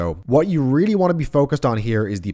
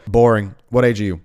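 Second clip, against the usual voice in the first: dismissive; 3 dB louder than usual. Retold or imitated. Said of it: "sneak the pushes in under your breath".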